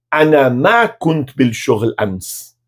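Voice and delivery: "ana ma kunt bil shoghl ams" slow but in one connected phrase; joined-up slow demo. Shown as a demonstration. Teacher gives the whole negative answer in Arabic, slowly connected.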